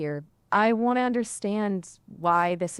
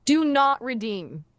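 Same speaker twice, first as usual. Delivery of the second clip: a slightly raised, slow delivery; louder retry; 5 semitones higher, slower than usual. Shown as a demonstration. Assistant retrying louder for the streamer, raised voice. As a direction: say it a bit louder and higher, drawn out. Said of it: "do it again, but louder".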